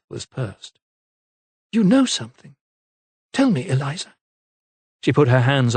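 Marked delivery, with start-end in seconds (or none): 1.7-4.1 urgent lady. A narrator's reading. Lady presses her maid.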